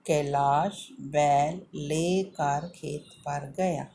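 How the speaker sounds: "कैलाश बैल लेकर खेत पर गया" read in one smooth, slow, clear line. Shown as a demonstration. Teacher to children, reading the sentence whole and clearly. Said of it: "हमें ध्यान रखना है".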